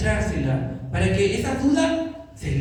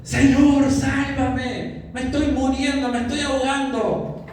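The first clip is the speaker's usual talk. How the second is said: drowning plea; 4 semitones higher than usual. Acted. Pedro drowning, cries out.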